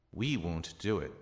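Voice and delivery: "We" rises and falls emphatically; emphatic "We", then falling away; stress on We. Shown as a demonstration. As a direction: lean on the opening "We". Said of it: "They can also be added".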